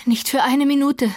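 high, firm refusal; insistent refusal. A narrator's reading. Catherine refuses Heathcliff even a moment away, insistent.

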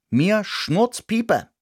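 high, slow, dismissive mouse. Acted. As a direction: shrug it off slowly. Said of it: "sagte ich".

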